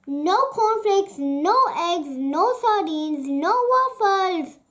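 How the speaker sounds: loud, high frustrated listing; cross yell. Acted. Hungry Alfie yells about missing breakfast. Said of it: "he yelled".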